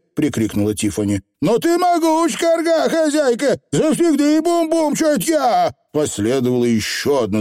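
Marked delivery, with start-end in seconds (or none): 1.4-5.7 squeaky little Scottish pixie; high, rough tiny rascal; Feegle voice. Acted.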